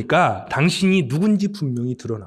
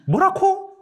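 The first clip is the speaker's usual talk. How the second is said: much higher Gyeongsang "뭐라코?" tossed up as a question; Gyeongsang dialect; much slower than usual. Retold or imitated. Preacher showing how a Gyeongsang speaker answers, in Gyeongsang dialect. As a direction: play a Gyeongsang local asking back. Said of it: "경상도".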